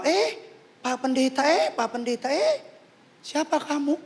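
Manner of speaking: high-pitched call to the pastor; acted-out hailing with rising ends. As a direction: imitate someone excitedly spotting a celebrity. Acts out people spotting the pastor.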